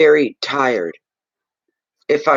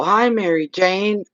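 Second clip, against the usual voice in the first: warm greeting; 6 semitones higher, slower than usual. Real, not acted. Greeting a viewer in chat.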